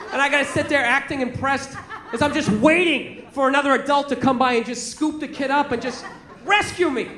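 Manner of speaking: ordinary delivery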